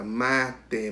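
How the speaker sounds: "matemática" split into syllables, second "ma" stressed; teacher sounding out "matemática" in pieces. Shown as a demonstration. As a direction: separate each syllable of "matemática", leaning on "má". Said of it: "é a sílaba tônica".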